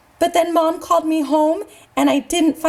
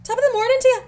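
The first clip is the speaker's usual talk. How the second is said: put-on Irish accent. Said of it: "I would try to speak in an Irish accent".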